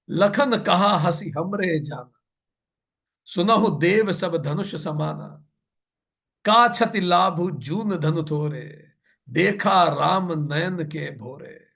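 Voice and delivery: slow, measured verse chanting; verse recitation. A narrator's reading. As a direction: recite the scripture line with drawn-out syllables. (धीमा दोहा पाठ)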